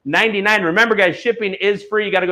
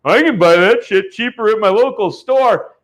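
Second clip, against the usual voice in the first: mocking quote; 2 semitones higher, 4 dB louder than usual. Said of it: "page that says".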